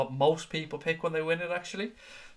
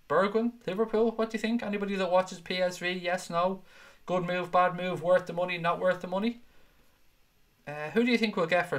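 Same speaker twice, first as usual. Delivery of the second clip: lively questions; 5 semitones higher than usual. Acted. Quizzing the viewers.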